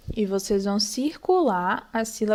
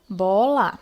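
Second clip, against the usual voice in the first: split into syllables; 3 semitones lower than usual. Shown as a demonstration. Teacher splitting the example word.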